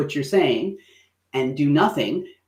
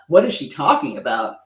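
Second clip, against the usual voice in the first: mock indignant outrage. Shown as a demonstration. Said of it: "But not in like".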